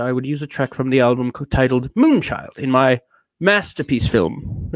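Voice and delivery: mannered British reviewer; lightly British, dramatic phrasing; affected British accent. Acted. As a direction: read it with self-important, put-on Britishness. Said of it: "adopted the British accent to sound special".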